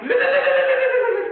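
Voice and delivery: high, loud panicked shouts of no. Acted. Man panicking at the murder threat, shouting high. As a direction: yell no in sudden terror.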